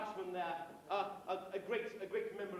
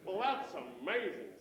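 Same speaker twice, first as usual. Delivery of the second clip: slow mock-American tourist, impressed; American accent; 2 semitones lower, 4 dB louder, slower than usual. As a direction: put on a drawn-out American accent. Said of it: "said our American friend".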